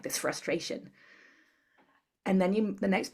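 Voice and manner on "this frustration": soft tapping phrase. Shown as a demonstration. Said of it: "you say something like".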